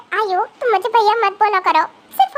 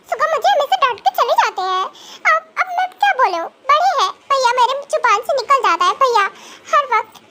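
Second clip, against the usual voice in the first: put-on higher girlish voice, sulky complaining; a kid venting her grudge; ranting young girl; 3 semitones higher than usual. Sulking girl ranting to herself about a singer's scolding.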